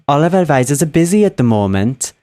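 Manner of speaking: attempted Welsh call-centre accent; lightly put-on Welsh lilt for a recorded hold message. Shown as a demonstration. Call-centre worker demonstrating the hold message, attempted Welsh accent. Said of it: "I can sort of do a Welsh accent".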